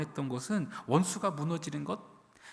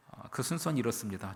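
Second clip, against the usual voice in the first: ordinary talk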